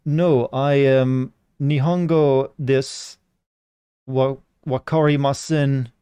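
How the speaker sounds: slow, halting mock Japanese; mock broken accent. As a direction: read the Japanese slowly and haltingly. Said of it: "in a broken accent".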